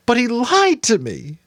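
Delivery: put-on a boy near tears, crying out; upset boy, high and raw; Jonas, anguished. A narrator's reading. Jonas weeping.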